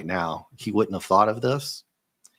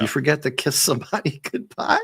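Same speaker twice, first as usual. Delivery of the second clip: higher, teasing question through a laugh; teasing character voice; 6 semitones higher than usual. Retold or imitated. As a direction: rib him playfully. Acting out teasing question in comic.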